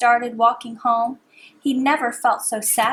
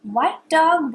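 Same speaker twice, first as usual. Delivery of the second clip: higher calling tone; sing-song call; 5 semitones higher, 5 dB louder than usual. Shown as a demonstration. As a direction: call it up high. Repeat call.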